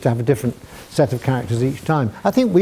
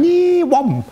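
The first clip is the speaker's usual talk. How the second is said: Knights who say Nee; 14 semitones higher than usual. Retold or imitated. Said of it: "unfortunately say".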